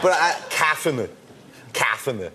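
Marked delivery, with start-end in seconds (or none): 1.7-2.3 Arnold Schwarzenegger accent. Shown as a demonstration. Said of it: "your V's into F's".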